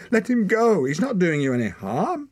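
very high, loud protest; desperate shout. A narrator's reading. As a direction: cry out for the cub's release. Captive boy struggles to free his cub.

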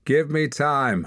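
slow, high, smug sneer. A narrator's reading. Hord answers the crowd with a slow smug sneer. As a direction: drawl it back with a curled lip. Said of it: "with a curl of his lip".

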